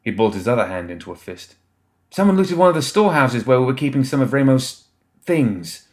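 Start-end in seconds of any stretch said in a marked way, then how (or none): 2.1-5.9 lightly voiced young woman, raised; slightly higher voice breaking in urgently. A narrator's reading. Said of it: "a young woman interjected".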